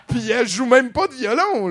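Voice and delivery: répété plus haut et plus fort; crié. Real, not acted. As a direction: hausse le ton sur violon. Répète la remarque plus fort. (crie la remarque)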